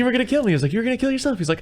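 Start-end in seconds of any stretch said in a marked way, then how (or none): 0.0-0.5 high-pitched, loud retold accusation; mock indignant protest. Retelling the two men's argument, mock indignant protest. 0.7-1.4 high-pitched, loud retold accusation; mock indignant protest. Retelling the two men's argument, mock indignant protest.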